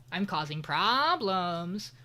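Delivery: slow, drawn-out teasing; slow mock provocation. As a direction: stretch the words out like a playful troublemaker. Mimics rival teasing to provoke.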